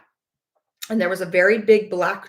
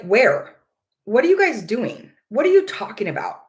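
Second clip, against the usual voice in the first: mild mock anger; 2 semitones higher, 3 dB louder than usual. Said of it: "the husband got really angry".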